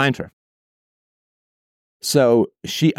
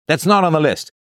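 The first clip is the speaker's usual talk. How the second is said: mock strict husband; 5 semitones higher, 3 dB louder than usual. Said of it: "he said".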